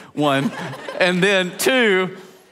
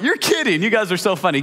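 feigned innocence; 3 semitones higher than usual. Retold or imitated. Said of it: "I was trying to hold it in".

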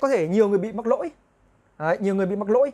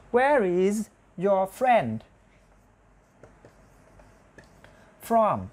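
very slow, broken by long pauses; slow model sentence; much slower than usual. Shown as a demonstration. Teacher builds the question for students, slow and separated. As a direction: spell the sentence out piece by piece.

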